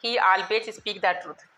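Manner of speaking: very slow, stretched dictation; teacher dictating for students to write down. Shown as a demonstration. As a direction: draw out each word so they can write. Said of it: "example एक लिखिए".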